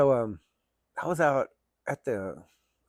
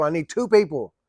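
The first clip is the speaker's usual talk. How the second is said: louder, fed-up repeat; fed up with the kid, louder; exasperated; 4 semitones higher, 8 dB louder than usual. Retold or imitated. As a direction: hit it again, running out of patience.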